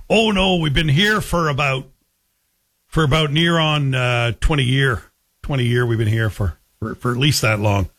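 imitated rural Ottawa Valley accent. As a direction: mimic an Ottawa Valley local reminiscing. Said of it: "sounds like an Ottawa Valley accent".

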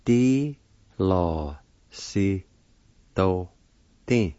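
"Di lo si do ti" in isolated syllables, long pauses. Shown as a demonstration. Teacher pronouncing the word platform, "Di lo si do ti" in separate syllables. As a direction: say "Di lo si do ti" one syllable at a time. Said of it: "is pronounced like this".

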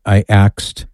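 "axed" said with an x sound, as "axed" not "asked". Real, not acted. Host catches himself saying "axed" on air, jokey slip. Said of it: "Who did I axe?".

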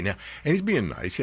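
ordinary delivery

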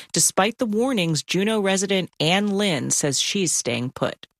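crisp, measured news anchor read. Real, not acted. Anchor briefs listeners on an Alaskan flood warning, news read. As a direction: read it as a radio news story.

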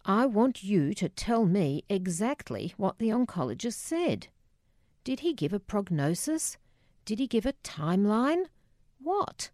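mild anger, questions climbing in pitch; rising anger. Acted. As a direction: press for answers with a touch of rising irritation. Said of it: "my anger starting to rise".

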